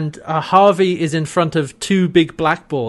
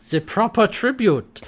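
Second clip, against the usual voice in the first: bad Austrian German accent, higher pitch; Harvey; 6 semitones higher than usual. Host completing Harvey's speech, bad Austrian German accent. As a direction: finish the line in a mock German accent. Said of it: "like, Austrian German accent".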